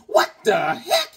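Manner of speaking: hammed-up disbelief; shocked. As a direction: stretch it out, rising at the end. Acting out giant Beckerman's shock.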